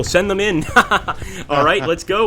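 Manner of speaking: gleeful rallying call; laughing battle order. Real, not acted. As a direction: send the troops in with a real laugh.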